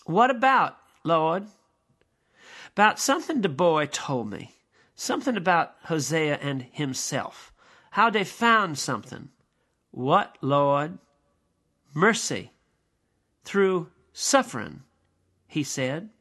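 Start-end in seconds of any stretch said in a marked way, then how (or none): 0.0-9.3 higher, louder dramatic reading; acted play dialogue. Lecturer voices God and Gabriel talking, higher and louder. 9.9-11.0 Gabriel asking. Acted. Gabriel asks. 11.9-14.8 solemn God. Acted.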